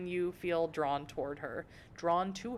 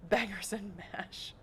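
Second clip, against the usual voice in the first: put-on slow, jokey British accent; put-on British, played for laughs; mock British accent; 2 semitones higher than usual. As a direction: blurt a silly Britishism. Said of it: "really weird British stuff".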